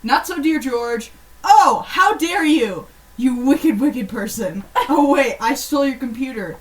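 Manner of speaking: overacted villain-fighting letter; mock melodramatic outrage. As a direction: play the wronged kid dramatically.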